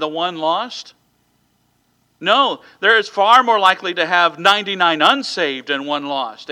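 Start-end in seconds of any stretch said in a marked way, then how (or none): 2.2-6.5 emphatic preaching. Real, not acted. Preacher hammers counterpoint.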